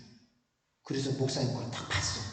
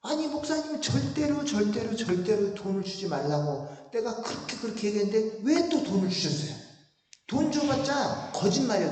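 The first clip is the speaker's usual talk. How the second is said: high, loud indignant scolding; fired-up protest, voice pitched high and loud; angry retelling; 6 semitones higher, 3 dB louder than usual. Retold or imitated. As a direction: let the outrage burst out at the old pastor. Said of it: "내가 너무 열받고 화가 났어".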